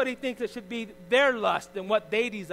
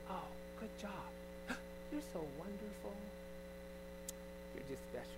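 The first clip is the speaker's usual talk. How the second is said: mock praise; 16 dB quieter than usual. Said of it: "step up and say".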